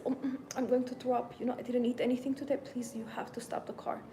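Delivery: mock queasy groan into a plea; pretend nausea. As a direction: act about to throw up. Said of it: "did this. I said".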